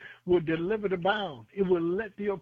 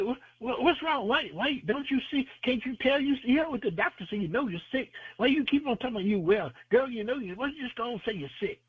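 higher-pitched mock nagging, quick in places; imitating doubters; 5 semitones higher, faster than usual. People questioning someone who keeps claiming to be well, mock exasperation. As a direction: play baffled people pressing their point.

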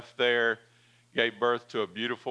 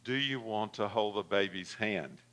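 meek and softer; 2 semitones lower, 5 dB quieter than usual. Retold or imitated. Nurse repeating the question, meek and softer. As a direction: say it meekly, shrinking back. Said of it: "kinda, you know, meek down".

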